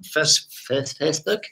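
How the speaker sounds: "Facebook" in a put-on mystery accent; unplaced silly accent. Host plugging social media in a mock unknown accent. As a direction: lapse into a vague comic accent on "Facebook". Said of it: "I don't know what accent that is".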